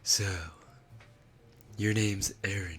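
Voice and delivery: anime captain voice tried in English; husky, put-on anime character voice, trailing down; Levi Ackerman. Streamer tries the Japanese character's voice in English, Levi Ackerman impression. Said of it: "but try it in English".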